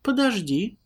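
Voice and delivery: startled, high stop; taken aback. Acted. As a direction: pull up short, startled. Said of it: "опешила Лара".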